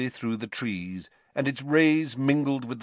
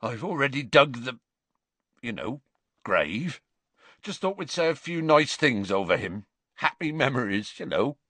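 quivering voice; 4 semitones higher than usual. Acted. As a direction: voice wavering, breaking. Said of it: "His voice quivered and broke".

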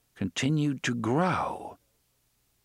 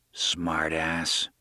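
growled; 6 semitones lower than usual. Acted. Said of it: "Tower growled at Aaron".

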